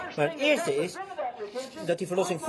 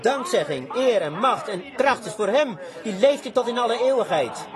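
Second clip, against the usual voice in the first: fervent preaching; 2 semitones higher than usual. Acted. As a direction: lift the verse up to the rafters. Acts out John's jubilant cry.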